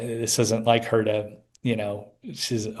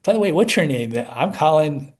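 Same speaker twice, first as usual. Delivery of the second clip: higher, louder friendly-stranger introduction; retold eager introduction; 5 semitones higher, 5 dB louder than usual. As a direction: blurt out an introduction, pitch lifted. Retold abrupt introductions to break tension.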